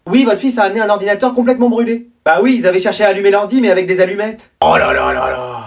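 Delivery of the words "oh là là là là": dismayed groan. Acted. Grandparents burnt the computer.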